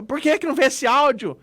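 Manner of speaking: distressed, desperate. Retold or imitated. Retelling a sender waiting for the audio to be seen, mock desperate. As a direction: imitate someone fretting over an unseen message. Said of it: "aqui aflito, desesperado".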